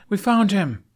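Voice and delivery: calling out. A narrator's reading. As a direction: call across the clearing. Knight calling out.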